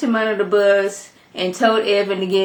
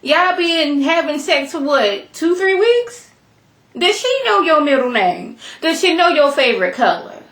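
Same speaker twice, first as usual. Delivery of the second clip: incredulous rant; 6 semitones higher than usual. Real, not acted. Vlogger scolding a TV character, incredulous rant. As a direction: pile up the questions, each one more outraged.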